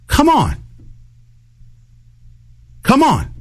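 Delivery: high exasperated groan of come on; fed up, drag it out high. Retold or imitated. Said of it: "and you're just like".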